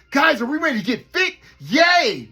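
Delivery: over-chirpy camp counselor yelling yay; mock camp counselor. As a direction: ham up a perky camp leader rallying the kids. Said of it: "kinda like when you got those campers".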